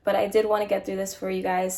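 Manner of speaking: stuffy nose from a cold; congested voice. Real, not acted. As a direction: talk through a blocked nose. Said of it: "forgive me if I sound a bit congested".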